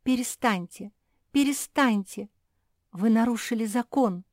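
high, upset outcry building on the repeat; stamping protest. A narrator's reading. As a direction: protest like someone stamping their feet. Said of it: "Луиза затопала ногами".

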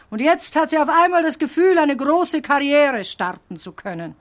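scornful. Acted. Teacher mocks singer's ambition.

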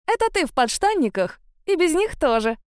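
playful high teasing. Acted. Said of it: "подразнила я его".

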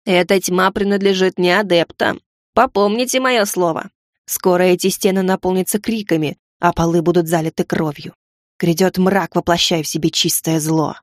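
foretell doom darkly; gargoyle. Acted. Gargoyle's dark prophecy.

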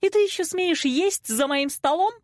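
high, indignant wail; wailing mother. A narrator's reading. Mother scolding daughter at the table, wailing. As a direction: howl it high in outrage. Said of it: "взвыла мама".

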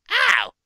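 sudden high cry of pain; sharp yelp. Real, not acted. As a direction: yelp out loud.

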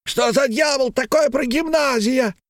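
put-on high drunken shout; high slurred drunken shout; frenzied shout. A narrator's reading. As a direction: yell like a madman. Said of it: "как бешеный, закричал".

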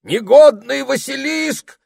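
high, slow, loud outraged shout; wizard yelling. A narrator's reading. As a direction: roar the insult, stretched out. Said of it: "закричал волшебник".

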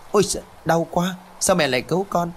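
put-on high, startled child cry of pain; a little boy yelping as his mother pinches him; child's yelp of pain. A narrator's reading. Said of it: "hét toáng cả lên". (bé trai kêu toáng lên vì bị mẹ cấu đau)

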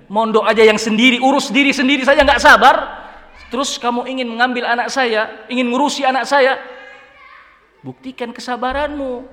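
father shouting down a would-be son-in-law; angry father. Acted. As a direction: tear into him like an outraged father. Father continues scolding the suitor.

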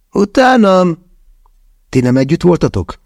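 shocked disbelief; stunned. A narrator's reading. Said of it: "döbbent meg Mia".

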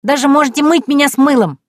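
very high gleeful gasp; little girl thrilled by the promise of lessons; delighted child. A narrator's reading. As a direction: squeal with joy like a small girl. Girl eagerly offers.

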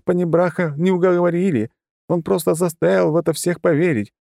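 high, hurried, scared confession; frightened babbling. A narrator's reading. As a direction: blurt it all out in fear. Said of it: "тут же зачастила бледная, как моль".

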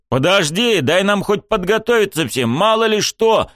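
pleading with a reckless friend, worried. A narrator's reading. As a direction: hold him back in alarm. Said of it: "Заволновался я".

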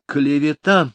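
high indignant outcry; mock-outraged lady. A narrator's reading. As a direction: protest the slander. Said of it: "возмутилась Меломори".

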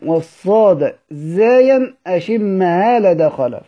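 slow recitation of the verse; recited verse. Shown as a demonstration. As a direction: intone the line slowly and evenly. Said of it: "ثم أتى بقراءة الإشمام". (إلقاء بطيء للبيت)

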